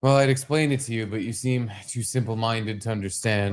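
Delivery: dry mock condescension; withering put-down. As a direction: talk down to them, deadpan. Teasing put-down of friend.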